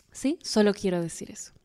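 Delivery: soft breathy whisper; whispered closing aside. Acted. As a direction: lean in and whisper it. Intimate aside after compliments.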